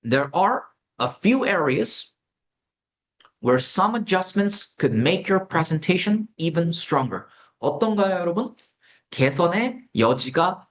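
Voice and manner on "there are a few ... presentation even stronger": unhurried, deliberate reading for learners; slow model sentence. Shown as a demonstration. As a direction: lay out each word slowly. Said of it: "slow model sentence". (예문을 천천히 읽어 주듯)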